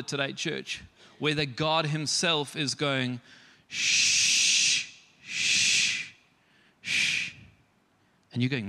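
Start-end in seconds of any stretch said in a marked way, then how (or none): 3.7-7.3 whispered shh, fading away; shushing. Pretend. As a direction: hush them gently like God. God hushing the church.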